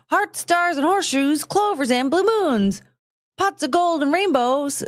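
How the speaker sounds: hint of a high cartoon pitchman; cereal mascot. Reciting cereal mascot's charms list.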